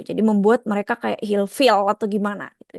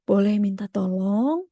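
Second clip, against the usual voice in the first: polite request; slower than usual. Shown as a demonstration. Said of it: "kalau ke temen".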